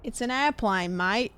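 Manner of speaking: lightly put-on Australian accent; casual mock-Aussie mate talk. Streamer playing with the accidental accent, light Australian. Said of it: "That's Aussie, not U K".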